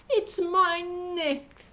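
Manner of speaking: slow, sniffly high giraffe voice; sad giraffe. A narrator's reading. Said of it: "sniffling sadly".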